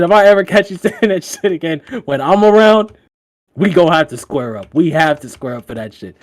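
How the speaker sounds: mock threat through a laugh, easing down; friend losing it. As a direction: imitate an indignant friend warning you. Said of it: "my nigga lost it".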